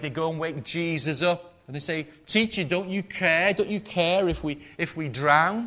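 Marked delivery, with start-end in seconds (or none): 2.3-5.7 loud, high, panicked cry for help; frightened plea. Retold or imitated. Preacher voicing the fishermen waking Jesus, loud panicked plea. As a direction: cry out like terrified men in a sinking boat. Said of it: "The fishermen are so afraid".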